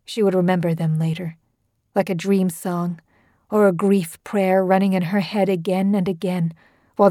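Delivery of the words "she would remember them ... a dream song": usual speaking voice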